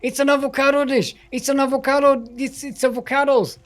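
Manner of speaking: high, loud joking cries of avocado; excited exclamation. Acted. Caster to co-caster, joking the name sounds like food, excited shout. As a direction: shout it like a silly discovery.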